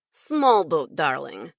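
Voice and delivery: lightly voiced Russian accent; a hint of Russian vowels. Russian assistant teasing about boats, light Russian accent. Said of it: "in a Russian accent".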